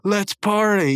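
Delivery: mock someone trying to be cool, rising to a cheer; cringy catchphrase. Mocking Muscle Man's would-be clever lines, cringy cheer. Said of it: "that's a very kinda cringy way".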